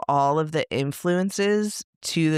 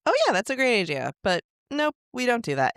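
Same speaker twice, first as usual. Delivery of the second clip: mocking the staff; 9 semitones higher, faster than usual. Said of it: "they're like".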